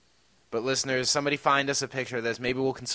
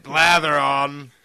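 posh British; 5 dB louder, slower than usual. Pretend. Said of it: "copying my accent".

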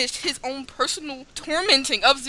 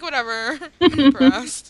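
slow, bored mock 'I'm impressed'; unimpressed sarcasm; slower than usual. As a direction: drag it out like you couldn't care less. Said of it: "totally unimpressed".

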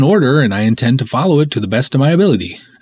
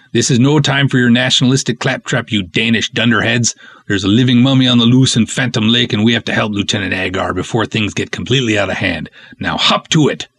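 put-on Scandinavian accent. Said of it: "way too fun doing those ridiculous accents".

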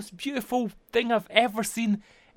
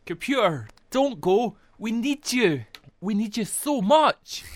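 pleading; 4 semitones higher, slower than usual. Acted. Begging the computer to stay.

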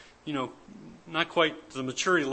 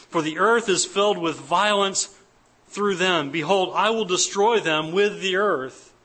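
raised, emphatic scripture reading; 4 dB louder than usual. Acted. Preacher reads God's judgment to congregation, emphatic scripture reading. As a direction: read the verse out firmly to a congregation.

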